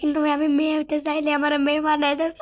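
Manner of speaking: half-shouted complaint; indignant shout. Real, not acted. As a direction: shout it out, outraged. Complaining about girl character.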